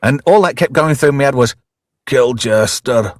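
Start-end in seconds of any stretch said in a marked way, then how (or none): 2.1-3.1 put-on Scottish accent. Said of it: "pardon my terrible Scottish accent".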